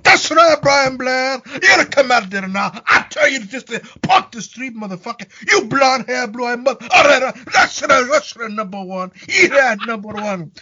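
mock redneck tough-guy shout; mock trucker yell. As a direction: bellow the trucker's taunts back, hammed up. Mocking the trucker's threats.

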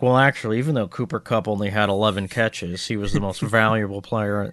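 lightly voiced pompous pundit, a touch of Churchill; a hint of a stuffy expert lecturing; mock pipe-smoking analyst. Teasing a know-it-all analyst, lightly voiced pompous pundit. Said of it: "some P F F guy smoking a pipe being like".

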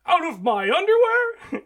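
high, loud, drawn-out disbelieving question; hammed-up shocked voice, slow and squeaking upward; mock incredulous man. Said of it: "And he's like".

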